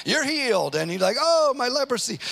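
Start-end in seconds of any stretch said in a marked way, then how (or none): 0.1-0.7 mock faith healer. Mimics a showy faith healer. 1.2-2.2 mock amazement. Acts the instantly healed leper.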